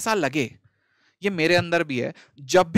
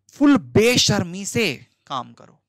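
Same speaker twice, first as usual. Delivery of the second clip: emphatic urging; 7 dB louder, slower than usual. Real, not acted. Urging students without shame.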